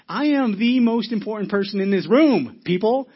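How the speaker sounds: loud, high, pompous proclamation; mock self-importance. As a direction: order people about like the most important person. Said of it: "you think to yourself".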